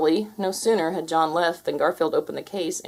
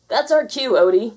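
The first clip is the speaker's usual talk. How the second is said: loud, higher, urgent yell; 5 semitones higher, 6 dB louder than usual. Acted. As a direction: yell it to flee. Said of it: "yelled Garfield".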